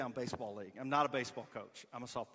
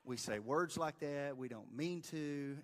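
put-on softer, slow comforting words to a boy; reassuring coach; 4 dB quieter than usual. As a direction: ease his guilt gently and slowly. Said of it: "'cause I'm like".

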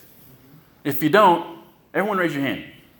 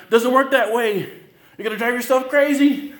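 emphatic warning; 11 semitones higher, 5 dB louder than usual. Real, not acted. Pastor warning his listeners.

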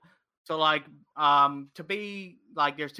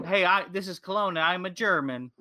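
mock French accent; 3 semitones higher than usual. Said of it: "and the Frenchman said".

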